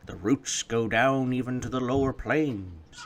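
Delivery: slow, lightly voiced grandpa; grandfather voice. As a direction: tell it like an old storyteller. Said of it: "he says".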